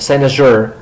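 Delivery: "cynosure" with zh in place of sh; voiced zh in the middle of "cynosure"; zh pronunciation. Shown as a demonstration. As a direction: say "cynosure" as SIGH-na-zhoor.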